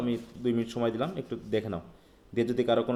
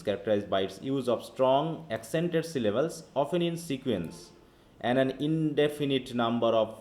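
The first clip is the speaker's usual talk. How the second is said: slow, careful reading of the definition; teacher reading the book to the class; reading aloud; much slower than usual. Shown as a demonstration. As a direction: read it out word by word. Reads the textbook definition aloud.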